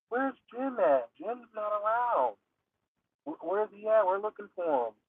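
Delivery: hint of anxious townsfolk asking around; worried friends. Worried friends searching for Jim.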